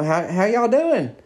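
high, drawn-out friendly hello; imitated woman's greeting.

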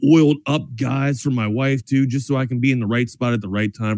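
casual radio sponsor plug; conversational sales read; live ad read. Acted. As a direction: pitch the sponsor like a chatty sports host.

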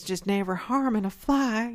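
lightly attempted Midwestern grandmother accent; a hint of badly done Midwestern accent; botched Midwestern accent. Podcaster mimicking her Kansas grandmother, in a wrong Midwestern accent. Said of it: "that's the wrong accent".

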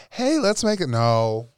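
bright demand, then flat refusal; mock annoyed friend then refusal. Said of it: "tired of people".

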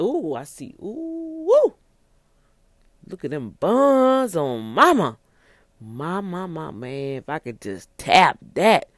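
ogle her under your breath; leering man. Acted. Man ogling next woman.

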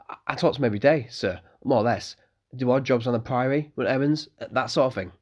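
put-on eager young innkeeper's son; young Malcolm.

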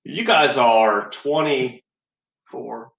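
slow, drawn-out disbelief; incredulous. Real, not acted. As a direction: stretch it out in disbelief. Disbelief at friends' age.

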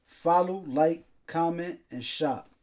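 measured sponsor read. Acted. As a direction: read the sponsor copy in even phrases. Reads the sponsor's ad.

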